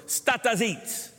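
"Stata zit" said slowly in Italian dialect; Italian phrase. Shown as a demonstration. Preacher teaching the congregation dialect, slow Italian. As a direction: draw out "Stata zit" the way grandparents said it. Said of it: "means shut up".

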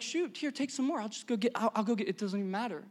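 soft, breezy offer; easygoing generosity. Acted. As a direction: wave it off quietly, no big deal. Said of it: "An abundance mindset would be like".

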